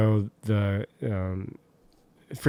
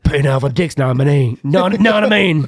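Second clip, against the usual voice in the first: lightly mimicked Cockney tough guy; action-star catchphrase, put on; Jason Statham; 4 dB louder than usual. Podcaster playing the star at the urinal, mock Cockney. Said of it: "get a glimpse of Jason Statham".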